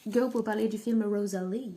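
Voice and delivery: put-on light American accent in French. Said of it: "je prends un accent américain".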